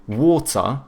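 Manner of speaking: British "water" with a hard T and a schwa, no R; British accent. Shown as a demonstration. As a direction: say "water" the British way, crisp T, drop the R. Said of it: "they do a schwa instead of pronouncing the R".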